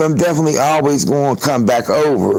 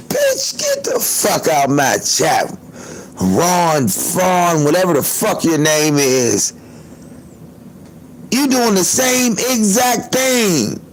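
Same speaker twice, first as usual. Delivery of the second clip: mock scolding her off the chat; retold telling-off; 3 semitones higher, slower than usual. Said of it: "And I said".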